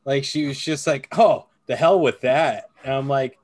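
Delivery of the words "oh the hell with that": imitating a sassy kid, slightly louder. Dad imitating his daughter's sassy comeback, sassy. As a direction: toss it back with retold sass. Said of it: "really sassy".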